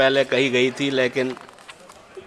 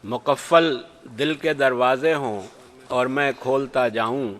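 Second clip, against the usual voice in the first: stately nazm recitation. Acted. Poet recites his nazm.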